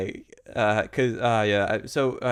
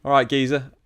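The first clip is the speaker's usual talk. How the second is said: surprised by someone popping into your head; startled greeting; 3 semitones higher, 6 dB louder than usual. Retold or imitated. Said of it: "I'd be like".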